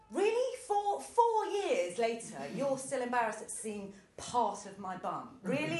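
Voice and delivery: mock amazement at her lasting embarrassment; incredulous. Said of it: "And I was like".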